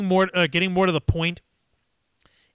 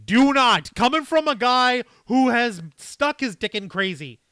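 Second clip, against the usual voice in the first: loud warning; 3 semitones higher, 7 dB louder, slower than usual. Real, not acted. Urgent warning to a chatter.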